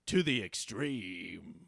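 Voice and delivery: slow, drawn-out extreme-sports tagline; hammed-up extreme commercial slogan; Mountain Dew commercial. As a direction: stretch out the tagline like a soda ad. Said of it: "be like a Mountain Dew commercial".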